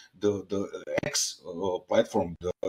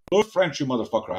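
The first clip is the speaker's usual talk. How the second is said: mock-cussing someone out in a raised pitch; exasperated insistence; 5 semitones higher than usual. Insisting to a Serb living in France, exasperated. Retells insisting after their excuse.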